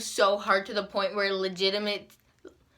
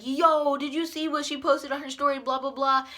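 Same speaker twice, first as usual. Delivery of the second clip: higher imitated friend's voice; eager gossip; 4 semitones higher than usual. Imitating people snapchatting her about a story, eager gossip. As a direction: lightly mimic someone bursting with news.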